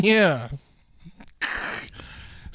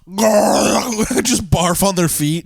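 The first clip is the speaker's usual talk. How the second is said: laughing; 3 semitones higher, much slower than usual. Real, not acted. Laughing while suggesting barfing.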